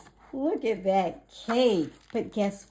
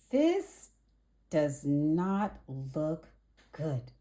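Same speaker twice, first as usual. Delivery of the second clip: disappointed; 3 semitones lower, slower than usual. Acted. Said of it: "said Ruby".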